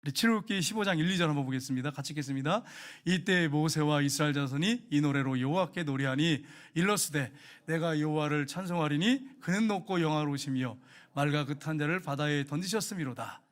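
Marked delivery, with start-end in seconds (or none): 3.0-13.4 scripture reading. Acted. Reads scripture aloud to congregation.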